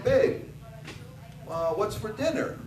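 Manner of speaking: husband calling to his wife across the house. Retold or imitated. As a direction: call out to the kitchen. Calling wife from twenty feet.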